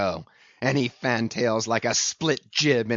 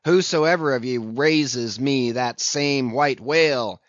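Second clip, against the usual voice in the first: loud, raised captain's proclamation; exclaiming loudly, pitched up a little; high raised voice; 4 semitones higher, 6 dB louder than usual. A narrator's reading. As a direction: call it out to the whole crew, ringing and emphatic. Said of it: "with a high raised voice exclaiming".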